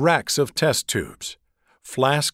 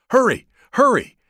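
high, loud panicked scream; frantic high yell of a scared girl; 9 semitones higher, 5 dB louder than usual. A narrator's reading. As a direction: shriek for help down the phone. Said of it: "someone screamed".

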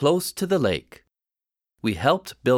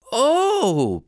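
surprised oh; 10 semitones higher than usual. Acted. Pam realizes.

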